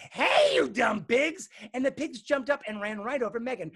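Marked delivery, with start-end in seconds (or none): 0.1-1.5 loud, high, drawn-out holler. A narrator's reading. Megan at the open front door, high drawn-out holler. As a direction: holler it high with a long first word. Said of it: "opened the front door all the way and said".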